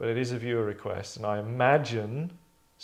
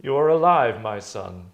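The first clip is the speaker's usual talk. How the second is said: father voice; 7 dB louder than usual. Acted. Father greets his son.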